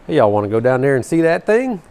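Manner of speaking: hammed-up Southern twang; retold Southern accent. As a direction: run it together in a mock Southern accent. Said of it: "people couldn't understand me on the phone".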